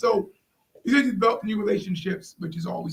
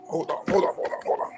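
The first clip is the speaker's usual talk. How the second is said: whispered hold on; 3 semitones lower, 4 dB quieter than usual. Real, not acted. Switching cameras mid-stream.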